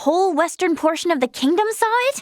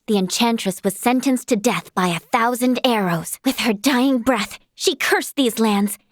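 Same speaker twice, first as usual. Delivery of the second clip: lower, measured legend-telling voice; theatrical storyteller, pitched down; storyteller narration; 3 semitones lower than usual. Acted. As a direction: tell it like an old fairy tale. Tells a legend.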